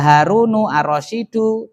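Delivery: Harunu and Ar-Rasyidu, both ending in u; correct u endings. Shown as a demonstration. Teacher reads the example for the class, "Harunu Ar-Rasyidu" with u endings. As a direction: sound a final u on "Harunu" and "Ar-Rasyidu". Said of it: "Maka ndak boleh dibaca Haruna".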